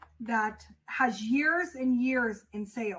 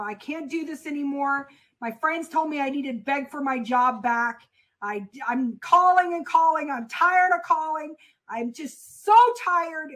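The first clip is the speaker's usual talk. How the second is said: getting louder to a worn-out, upset outburst; retold breakdown; 5 dB louder than usual. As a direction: replay the despairing complaint to grandma. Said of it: "told my grandma I was crying up a storm".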